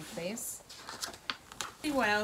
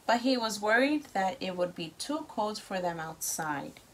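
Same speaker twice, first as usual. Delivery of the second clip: lively storybook read-aloud; reading to children. A narrator's reading. Parent reads story to child.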